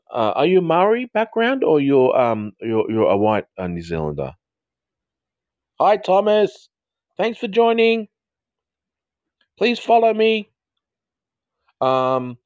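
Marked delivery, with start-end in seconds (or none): 5.8-10.5 high, sustained singsong call; singsong greeting. Real, not acted. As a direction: greet a newcomer in a high, held-out lilt. Greeting a newcomer to the livestream.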